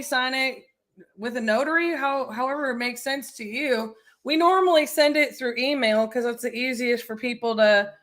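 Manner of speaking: light Southern accent, mirroring the client. Real, not acted. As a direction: talk to the seller with a Southern lilt. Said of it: "you mirror the thick Southern accent".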